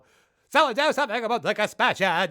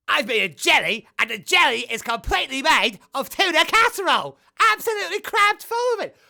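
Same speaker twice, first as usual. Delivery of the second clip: excited; 8 semitones higher, 6 dB louder than usual. Acted. Excited character.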